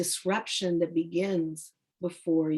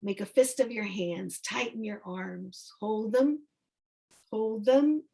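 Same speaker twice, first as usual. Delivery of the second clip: unhurried instructions with long pauses; guided meditation. Acted. Teacher leading students through tightening and releasing the body, calm guided-relaxation voice. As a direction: draw out the final word of each cue.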